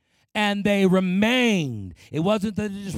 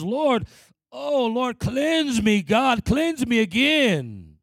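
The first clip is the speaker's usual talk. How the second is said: acted remorseful prayer, building higher toward the end; repentant plea; 4 semitones higher, slower than usual. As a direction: plead with God as if thrown down before him. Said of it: "throw ourselves down before God".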